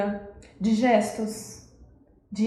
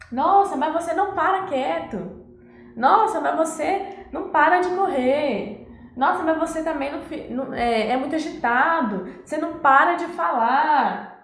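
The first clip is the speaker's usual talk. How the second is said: put-on higher, exasperated scolding of a restless child; fed-up mom or dad repeating the same complaint; exasperated parent; 5 semitones higher than usual. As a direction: nag the kid who won't sit still.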